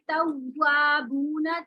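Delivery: तव्वाबूना read slowly with rounded lips on the doubled व. Shown as a demonstration. Teacher modelling the rounded तव्वाबूना for students. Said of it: "हमने होठों को गोल करके पढ़ना है".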